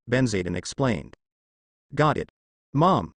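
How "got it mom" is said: talking through a mouthful of eggs; mouth full. Acted. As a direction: say it with food in your mouth. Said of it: "with a mouthful of the scrambled eggs".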